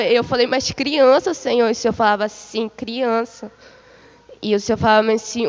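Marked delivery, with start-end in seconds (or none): 0.5-1.7 disbelieving question. Retold or imitated. Woman questions the Lord about children, mildly disbelieving. 2.7-3.5 quiet, level one-word answer; calm confirmation. Retold or imitated. The Lord answers her question, calmly confirming.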